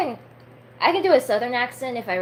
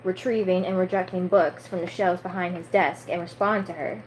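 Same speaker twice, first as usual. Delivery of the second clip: story narration. A narrator's reading. Reads a novel aloud between chat.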